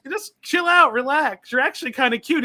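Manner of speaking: lightly voiced dub Bulma, flirty; teasing and flirty, lightly played; overacted anime dub. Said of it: "and then she's like".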